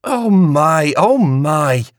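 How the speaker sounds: high, fluttery exclamations; all aflutter; flustered. A narrator's reading. Flora thrilled at the sight outside. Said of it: "Flora said".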